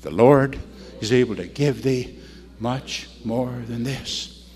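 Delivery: measured recital, slowing and softening at the end; phrase it in pieces for all to follow; leading a recitation. Real, not acted. Preacher has congregation repeat the verse, measured recitation. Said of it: "Say it with me".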